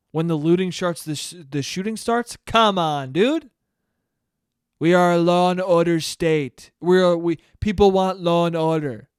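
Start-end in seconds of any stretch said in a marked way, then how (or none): 2.5-9.1 louder, firm mock Trump. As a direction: bluster it like a stump speech. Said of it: "mock Trump speech".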